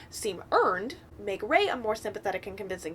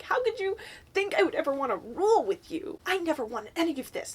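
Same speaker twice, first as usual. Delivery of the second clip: raised, disbelieving outburst; angry; 6 semitones higher than usual. Acted. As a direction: hurl it back at him. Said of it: "still going off throughout this".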